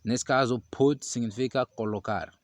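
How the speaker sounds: ordinary delivery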